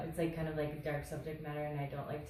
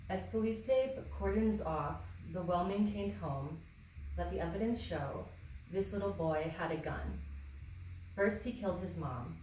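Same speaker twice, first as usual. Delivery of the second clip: deliberate poetry recital, line by line; measured spoken-word delivery; poem reading. Acted. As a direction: read your poem aloud, pausing after each line.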